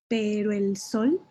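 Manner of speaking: pero el sol said slowly with weight on sol; measured demo reading; slow syllable count. Shown as a demonstration. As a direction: count each beat. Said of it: "nuestra tercera sílaba es aguda".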